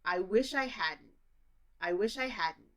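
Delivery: hadn't said as had-n with a stop, no D; hadn't with a missing D sound. Shown as a demonstration. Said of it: "hadn't also doesn't have any D sound".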